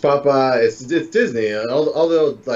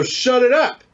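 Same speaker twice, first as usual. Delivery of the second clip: slow, higher-pitched playful rebuke; mock telling-off; 10 semitones higher, 4 dB louder, slower than usual. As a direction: draw out a mock order to hush. Mock telling-off after teasing.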